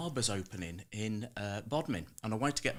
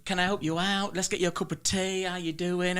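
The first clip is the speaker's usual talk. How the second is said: higher, welcoming barber; the speaker's own voice; 7 semitones higher than usual. Retold or imitated. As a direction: offer tea cheerily, pitched up. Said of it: "that's me".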